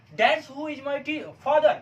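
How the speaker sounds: very slow, high dictated sentence; slow dictation. Shown as a demonstration. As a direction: spell it out slowly for students to copy. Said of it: "हो गया".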